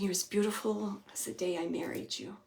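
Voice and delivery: hushed, tender quote; gentle husband's voice. Retold or imitated. Medium voicing a husband to his wife, soft and tender. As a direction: relay it softly, lingering gently. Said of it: "gentle voice".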